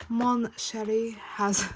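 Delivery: slow, hammed-up bad French accent; rubbish French accent. Reading an envelope name to viewers in a bad French accent. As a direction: mangle the name in mock French. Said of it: "that was a rubbish French accent".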